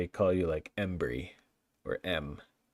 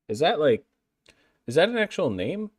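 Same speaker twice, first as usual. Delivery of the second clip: disbelief; 10 semitones higher, 7 dB louder than usual. Real, not acted. Baffled by strange name.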